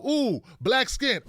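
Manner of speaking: the virus backing off in mock alarm; startled virus voice. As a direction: virus spotting black skin, drawn out in fright. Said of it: "then they go".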